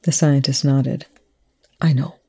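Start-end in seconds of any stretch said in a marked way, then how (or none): 1.8-2.2 breathy whisper of defeat; whispered admission. A narrator's reading. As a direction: barely voice the words. Rush despairing, soft reply.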